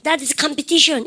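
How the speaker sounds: very slow, words drawn out; slow example for the class; slow model sentence. Shown as a demonstration. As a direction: read it slowly for students. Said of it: "아시죠?".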